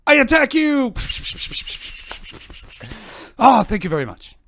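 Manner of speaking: put-on hammy Japanese accent, high and loud; goofy anime villain in Japanese accent. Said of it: "you sound like a Japanese Tim Allen".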